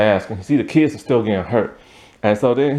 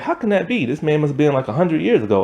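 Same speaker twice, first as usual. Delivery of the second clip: higher, puzzled, a light mock disbelief; 4 semitones higher, faster than usual. Kids seeing the handyman from the vision, mock disbelief. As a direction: toss it up like you can't believe it. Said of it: "So they're all like".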